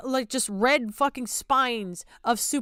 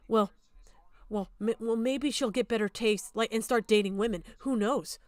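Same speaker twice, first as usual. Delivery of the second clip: mock dismissive quote; 3 semitones lower, 5 dB quieter than usual. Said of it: "your reaction was".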